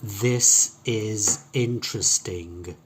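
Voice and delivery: slow, every I short as in "it"; short I sounds. Shown as a demonstration. Teacher modelling a sentence without long E, short I sounds. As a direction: say "This is interesting" slowly with relaxed short I vowels. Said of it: "There is no long E sound in that sentence".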